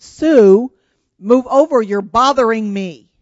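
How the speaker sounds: put-on loud, annoyed kid bossing a sibling; annoyed demand. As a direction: raise your voice, irritated, in a retold squabble. Retold squabble, sterner second demand.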